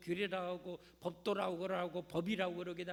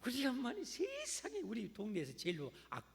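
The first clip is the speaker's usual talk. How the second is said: put-on child complaining about mom, raised and whiny; sulky child; 5 semitones higher than usual. Ungrateful son griping about his mother, higher whiny voice. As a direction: whine like a resentful kid. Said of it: "이렇게 생각해".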